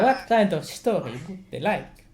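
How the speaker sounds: lilting put-on Swedish accent. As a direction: answer in playful Swedish English. Keeps up Swedish accent demo.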